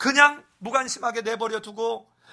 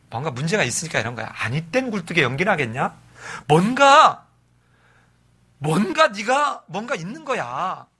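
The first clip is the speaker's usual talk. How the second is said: lower-pitched, lecturing friend voice, lightly acted; accusing friends; 4 semitones lower than usual. Preacher voicing Job's friends lecturing him, lower mock voice. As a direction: play the smug friends pinning blame on him. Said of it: "친구들이 와가지고".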